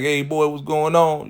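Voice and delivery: loud, high, cheerful hello to the room; hearty greeting. Retold or imitated. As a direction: boom it out like an uncle arriving. Darnell greets everyone on arrival.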